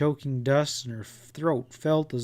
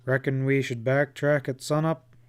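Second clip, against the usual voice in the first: growled. Acted. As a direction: grumble it, barely gruff. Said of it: "he growled".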